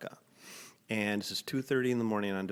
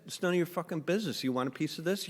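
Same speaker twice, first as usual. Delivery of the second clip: mouthy retort; 8 semitones higher, faster than usual. Retold or imitated. Answering the stranger's challenge, fast defiant retort. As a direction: pick the fight on purpose. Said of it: "I said".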